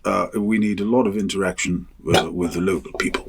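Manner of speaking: a hint of mock BBC English; BBC accent. BBC instructing the crew on local interaction, light BBC accent. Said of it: "I don't know why I put this accent on every time I talk about the".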